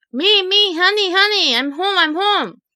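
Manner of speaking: high, hurried pleading at the door; urgent pleading. Retold or imitated. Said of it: "I'm like".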